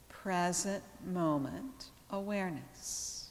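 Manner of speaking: calm yoga teacher with long, restful pauses; guided meditation. Real, not acted. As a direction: guide them gently into relaxation, unhurried, letting each phrase settle. Leads yoga relaxation.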